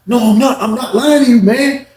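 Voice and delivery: high denial with a laugh; voicing a pressured inmate, high and nervous. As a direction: deny it nervously. Zoe denying, laughing nervously.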